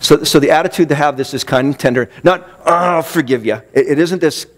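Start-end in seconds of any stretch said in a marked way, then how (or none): 2.7-3.6 reluctant, put-upon concession; mock grudging forgiveness. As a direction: act out forgiving with a crummy attitude. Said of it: "crummy attitude".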